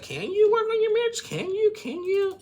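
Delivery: loud, very high taunting retort; imitated shouting comeback; mock confrontational. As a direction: fire the question back in an acted quarrel. Retold quarrel, snapping back.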